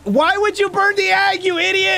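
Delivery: high, slow, scolding shout; exasperated yell. Real, not acted. Scolding teammate over egg.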